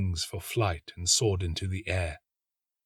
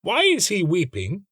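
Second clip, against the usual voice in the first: higher, curious little lizard; 10 semitones higher, 4 dB louder than usual. A narrator's reading. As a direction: ask with quick curiosity. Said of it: "asked the little green lizard".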